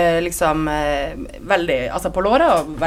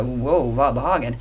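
1 mock indignant; 6 semitones lower, slower than usual. Reacting to the sexist friend.

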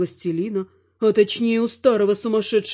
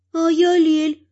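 higher, lighter elf voice; 10 semitones higher, 4 dB louder, slower than usual. A narrator's reading. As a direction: play the elf introducing himself, much higher. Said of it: "представляется эльф".

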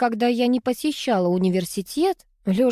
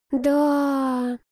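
upset drawl; 6 semitones higher than usual. A narrator's reading. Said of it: "расстроенно протянула Алла".

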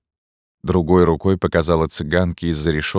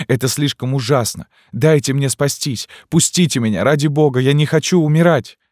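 put-on girl begging the recluse to let her escape; terrified pleading; 7 semitones higher than usual. A narrator's reading. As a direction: beg for your life. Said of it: "обезумевшая от ужаса".

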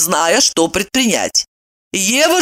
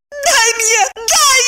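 much higher, tearful screech; much slower than usual. A narrator's reading. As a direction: shriek a dare. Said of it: "завизжала она".

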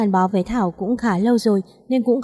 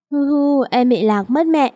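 mock crying; 4 semitones higher than usual. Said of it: "Cô bé khóc".

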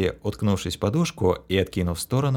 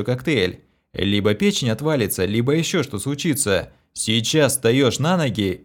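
stern lecture; 3 semitones higher, 3 dB louder than usual. Acted. Stern lecture to sick girl.

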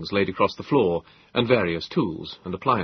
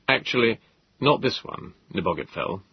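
gentle. Acted. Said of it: "I said gently".

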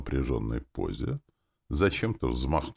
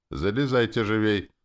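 higher-pitched thin tenor; colourless tenor; 7 semitones higher, 4 dB louder than usual. A narrator's reading. Driver hurrying passengers aboard, colourless tenor. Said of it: "Он проговорил бесцветным тенорком".

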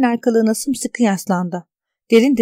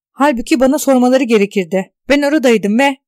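insistent; 2 semitones higher, 4 dB louder than usual. Acted. Insistent protest, cut off.

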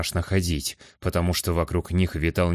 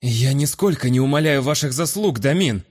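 feeble excuse; 7 semitones higher, 4 dB louder than usual. Acted. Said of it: "Вяло попытался оправдаться гость".

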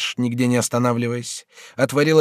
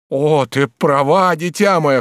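slow, louder outcry of relief; glad exclamation; 6 semitones higher, 6 dB louder, slower than usual. Acted. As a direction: cry out, suddenly remembering. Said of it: "вскричал Бюва". (радостный возглас)

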